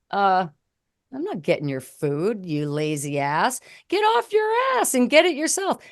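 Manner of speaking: a put-upon wife telling him off; mock snapping at spouse.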